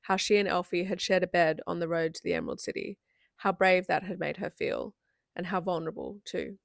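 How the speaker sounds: measured book-reading voice; story narration. A narrator's reading. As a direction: read the passage aloud with feeling. Reads a novel passage aloud.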